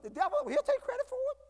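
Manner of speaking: mock devil. Preacher mocking the devil.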